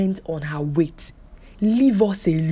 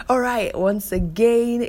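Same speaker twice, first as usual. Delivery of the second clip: whisper; 6 semitones higher, 4 dB louder, slower than usual. Real, not acted. Whispered sign-off lead.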